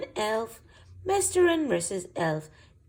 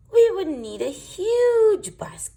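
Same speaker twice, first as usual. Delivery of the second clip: high; 12 semitones higher, 10 dB louder than usual. Acted.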